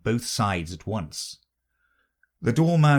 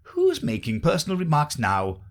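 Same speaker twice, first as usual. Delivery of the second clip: triumphant; 6 semitones higher, 3 dB louder than usual. Acted. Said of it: "asked triumphantly".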